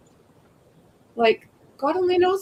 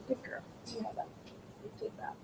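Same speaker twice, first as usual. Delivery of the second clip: soft dog praise; 21 dB quieter, faster than usual. Real, not acted.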